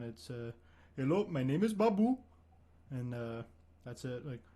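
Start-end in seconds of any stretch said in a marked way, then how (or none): 1.0-2.2 higher, louder simple-minded voice. Acted. Showing his date the Babu character voice. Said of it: "a pretty cool character I've been working on".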